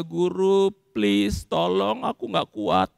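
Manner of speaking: gentle pleading for help; polite, humble plea. Acted. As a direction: ask meekly, admitting weakness. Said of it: "Mestinya sopan, rendah hati". (memohon dengan sopan)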